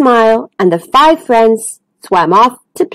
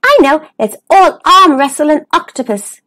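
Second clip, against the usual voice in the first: eager, higher-pitched suggestion; exclaiming; 5 semitones higher than usual. Acted. Dennis proposes the next game, mildly excited exclamation. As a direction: pipe up with a bright idea. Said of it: "exclaimed Dennis".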